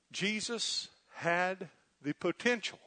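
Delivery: "potential" set apart and stressed, slow measured phrase. Real, not acted. Preacher carefully qualifying a doctrine for the congregation, stress on "potential". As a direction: lean on the word "potential", taking it slowly. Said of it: "emphasis on the word potential".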